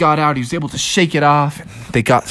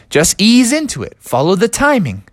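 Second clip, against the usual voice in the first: lightly voiced encouraging dad, higher pitch; coaching dad; 7 semitones higher than usual. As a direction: coach him along. Dad coaching his son.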